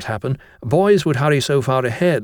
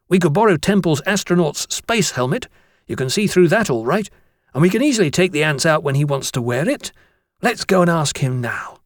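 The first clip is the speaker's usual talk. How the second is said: a hint of a keen boy's voice; lightly voiced schoolboy; 5 semitones higher than usual. Bromwich suggests borrowing Temple's space helmet, lightly boyish. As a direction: propose the idea brightly but lightly.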